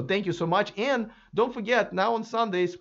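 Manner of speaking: hoarse after talking for hours; worn, hoarse speaking voice. Real, not acted. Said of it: "I have a hoarse voice".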